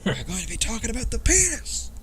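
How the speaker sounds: a hint of a high, fast host voice; playful high announcer read; mock announcer voice. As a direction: announce it like a show intro, lightly. Announcing in a put-on voice.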